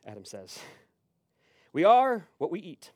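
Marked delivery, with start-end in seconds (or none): 1.7-2.9 loud, raised pronouncement; super serious stranger. Retold or imitated. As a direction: declare the cliché like profound truth. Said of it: "super serious".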